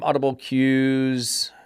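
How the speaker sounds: slow, hushed whisper of disbelief; disbelieving whisper. Acted. Reading the pamphlet aloud to viewers, in a stunned slow whisper. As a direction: breathe the words out slowly as if stunned.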